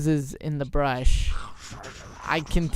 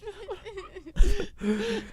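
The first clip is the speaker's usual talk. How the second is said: fake crying laugh; 4 dB quieter than usual. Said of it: "And I kinda cried a little".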